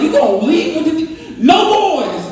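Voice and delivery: mock protective dad yelling after her; calling after her. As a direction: holler after the daughter.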